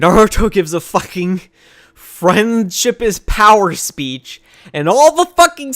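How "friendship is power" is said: slow, drawn-out mock slogan; sarcastic anime slogan, dragged out. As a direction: sneer out the cheesy catchphrase slowly. Mocking Naruto's cheesy speech.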